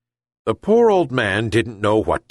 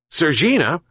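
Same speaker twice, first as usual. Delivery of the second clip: calling out; 7 semitones higher than usual. A narrator's reading. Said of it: "he shouted again".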